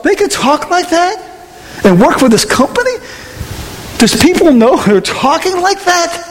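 high-pitched incredulous questioning; retold disbelief. Preacher reliving his thoughts about coworkers' talk, high incredulous questions. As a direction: play scandalized by what was overheard.

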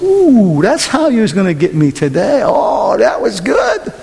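playful mock-impressed exclamation; mock realization. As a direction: act out admiring a sly trick. Acted catching-on to Satan's trick.

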